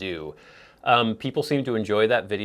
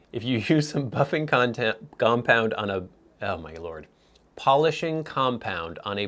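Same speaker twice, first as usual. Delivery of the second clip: choking on a drink; 2 semitones higher than usual. Real, not acted. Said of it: "sorry, I'm choking".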